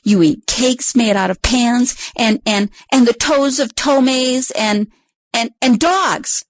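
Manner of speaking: slow, stammering critter; scared stammer. Acted. Frightened critter accuses Susie, slow and stammering. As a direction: trip over the ands in fear. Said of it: "body shivered so hard".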